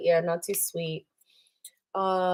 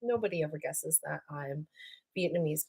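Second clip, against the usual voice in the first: quoted exasperation; 8 dB quieter than usual. Retold or imitated. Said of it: "I was like".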